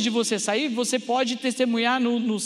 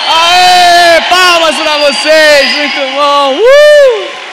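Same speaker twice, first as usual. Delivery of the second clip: excited cheering; 7 semitones higher, 18 dB louder, much slower than usual. Real, not acted. Cheering crowd after the chant.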